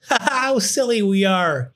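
high, half-laughing line; mild mutter. A narrator's reading. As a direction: say it through fading giggles. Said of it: "he managed to mutter".

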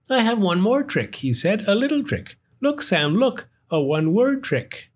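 high, sly little trickster; mischievous firefly. Acted. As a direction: tease with a secret. Gus mischievous.

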